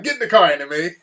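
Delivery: insist, with the voice back up; retold firm urging. Husband repeating himself to wife, retold firm urging. Repeats the order more firmly.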